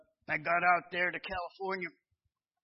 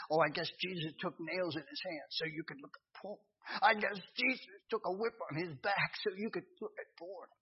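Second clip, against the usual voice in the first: still small voice; 5 dB quieter than usual. Retold or imitated. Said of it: "Let God talk to you in the same way".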